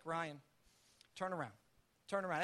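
soft, calm prompting with pauses; not angry, gentle. Retold or imitated. God prompting Ryan to go back, gentle and quiet. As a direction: say it quietly, like an inner nudge. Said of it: "not angry, not te-, not yelling at me".

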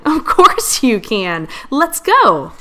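loud, drawn-out delighted yes; gleeful go-ahead without an actual laugh; merry outburst. A narrator's reading. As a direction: stretch it out, then leap high and loud. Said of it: "Scout burst out laughing".

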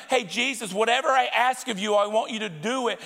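quick, demanding prayer; selfish prayer. Shown as a demonstration. Pastor mocks a selfish prayer to God, quick and demanding. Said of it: "Instead of saying that".

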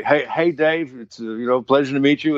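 hammy English accent imitation of a rock star; horrible English accent. A rock musician greeting two fans backstage, in a bad English accent. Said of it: "I'm doing a horrible English accent".

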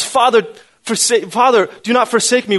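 retold crying out. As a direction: cry out in appeal, as a preacher quoting. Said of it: "He cried out at the cross".

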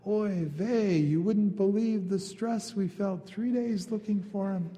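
hammed-up Jewish mother lament; fretting Jewish mother. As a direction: sigh out the stress like a fretting mother. Mary voiced as a fretting Jewish mother.

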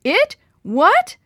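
high, loud alarmed question; startled cry. A narrator's reading. Dad spinning around, startled alarmed cry. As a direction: shout it in shocked confusion.

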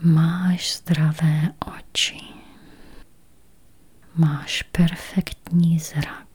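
slow, spacious meditation voice with long pauses; guided meditation. Acted. Meditation guide easing listeners toward healthy eyes, slow guided-meditation voice. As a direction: guide listeners gently into calm, unhurried.

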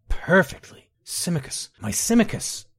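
rising anguished cry of her lost love's name. Acted. Baron crying out for her dead Simicus in anguish. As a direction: let the grief break out on his name.

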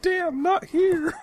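high, slow, strained anime growl; Shadow voice. Pretend. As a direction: mutter it like a tortured anime hero. Joining the Shadow impression.

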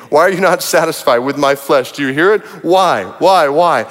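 earnest, measured Bible reading; a preacher reading Job's cry of despair aloud; scripture reading. Acted. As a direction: read Job's lament with weight. Reads Job's lament aloud.

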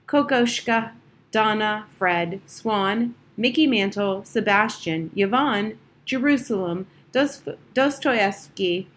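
lightly voiced, gentle man greeting his cats by name; softly. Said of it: "He always spoke very softly".

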